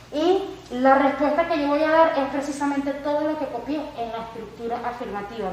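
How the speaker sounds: ordinary delivery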